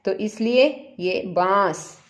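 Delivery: slow बांस with the आँ through mouth and nose; nasal aa in baans. Shown as a demonstration. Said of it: "मुंह और नाक दोनों से". (बांस धीरे, नाक से आँ)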